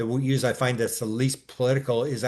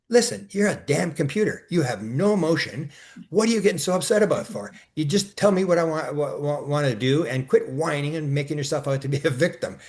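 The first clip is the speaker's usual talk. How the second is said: higher-pitched scolding retort; exasperated scolding; 3 semitones higher than usual. Retold or imitated. Man telling off his chatbot, exasperated scolding. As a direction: scold it like a whining kid.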